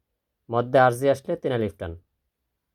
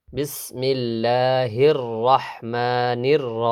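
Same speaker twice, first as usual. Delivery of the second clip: drawn-out Quranic chant of the words; slow recitation; much slower than usual. Shown as a demonstration. Teacher chanting Bismillah slowly for students. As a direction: recite slowly, stretching each vowel. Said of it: "Quran recitation demo".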